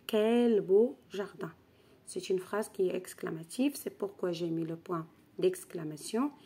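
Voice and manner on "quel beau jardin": slow, louder exclamation. Shown as a demonstration. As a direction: marvel at the garden, drawn out. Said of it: "alors je dis". (s'exclamer lentement, plus fort)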